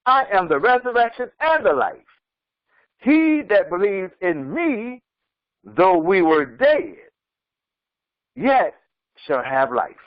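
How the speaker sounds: slow, measured recitation; solemn scripture. Acted. Preacher reciting the funeral verse, slow and solemn. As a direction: intone it like a funeral reading. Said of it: "I hear this at Christian funerals".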